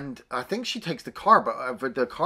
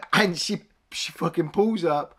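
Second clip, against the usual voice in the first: laughing; 6 semitones higher than usual. Real, not acted. Laughing while retelling.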